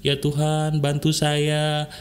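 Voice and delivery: slow, level mock-weeping plea; mildly imitated crying, drawn out; demonstrated tearful prayer. Shown as a demonstration. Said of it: "nangis gitu, keluarin air mata".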